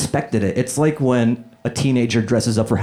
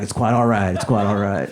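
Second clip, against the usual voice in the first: Matthew McConaughey impression; 4 semitones lower than usual. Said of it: "doing an impression of Matthew McConaughey".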